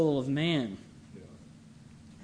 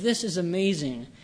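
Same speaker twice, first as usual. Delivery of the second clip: mildly exultant, with louder bursts on key phrases; a touch of sovereign exultation; exultant Christ; 4 dB louder than usual. Acted. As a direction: voice Christ's triumph with measured emphasis. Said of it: "Christ is exalting in his own sovereignty".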